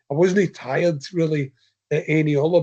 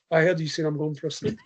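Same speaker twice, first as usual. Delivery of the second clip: amused retelling; faster than usual. Real, not acted. Runner retells challenging his friend about sleep, amused. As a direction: laugh breaking into the words.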